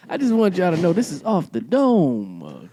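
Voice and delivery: put-on late-night radio lover; alter ego. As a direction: croon it in big swoops. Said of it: "does this alter ego".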